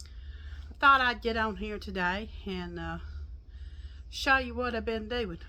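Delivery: breathless, airy half-whisper; out of breath. Real, not acted. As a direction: talk while still catching your breath. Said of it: "I'm out of breath".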